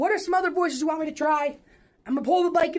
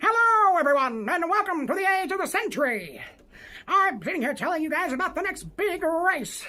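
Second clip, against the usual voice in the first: punched greeting, then smooth announcer patter; old-timey radio voice. Shown as a demonstration. Telling listeners about the big race, old-timey radio announcer voice. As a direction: sell it like a mid-century race broadcast. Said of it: "nineteen sixties voice sound on the radio".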